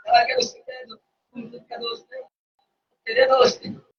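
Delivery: the shouted line echoed back in a whisper; hushed repeat. Acted. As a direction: drop to a breathy hush after the big shout. Same words repeated after the shout.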